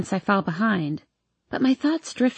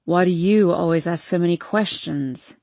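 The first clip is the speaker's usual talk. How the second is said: whiny; 3 semitones lower than usual. Acted. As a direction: whine like a bored drunk. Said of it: "he whines".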